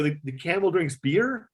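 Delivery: can't believe what he's hearing; incredulous. Retold or imitated. Producer hearing the camel drinks beer, incredulous. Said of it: "I go".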